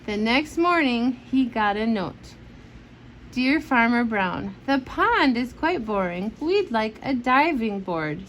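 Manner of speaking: lively bedtime storybook reading; reading to children. Acted. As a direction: read it aloud to a child at bedtime. Parent reads picture book aloud.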